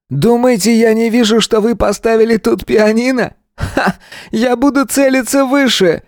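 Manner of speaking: a gunman gleefully yelling threats; shouting madman. A narrator's reading. Gunman behind door to hostages, high crazed shout.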